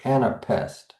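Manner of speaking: "anapest" with the stress landing on the end; two light beats, then weight: an-a-PEST; stress on last syllable. Shown as a demonstration. Teacher letting students hear the anapest, stress on last syllable. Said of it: "we're ending with that stress".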